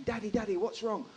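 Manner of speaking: lightly voiced young daughter; little daughter's voice. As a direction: imitate a child anxiously calling a parent. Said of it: "she followed me down one of the aisles going".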